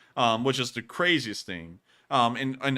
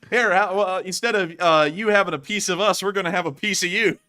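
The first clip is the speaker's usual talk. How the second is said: laughing; 6 semitones higher, 6 dB louder than usual. Retold or imitated. Retelling with laughter.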